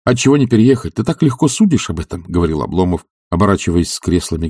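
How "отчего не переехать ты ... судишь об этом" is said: indignant retort. Acted. Oblomov indignant.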